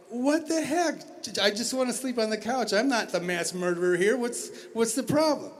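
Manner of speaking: high, baffled protest; exasperated. Retold or imitated. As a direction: throw it up in disbelief. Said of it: "And I'm like".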